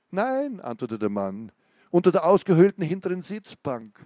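gripping reading of an interrogation scene; story narration. A narrator's reading. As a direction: read it like a tense crime novel. Author reads thriller interrogation scene.

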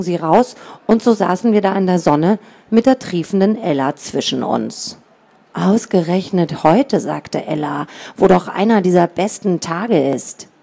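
put-on reading a children's book aloud; story narration. A narrator's reading. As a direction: tell it like a storybook. Author reads the book aloud.

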